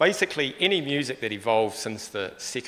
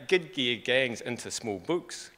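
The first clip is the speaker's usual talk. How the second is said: Scottish saying; slower than usual. Retold or imitated. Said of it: "She would often say".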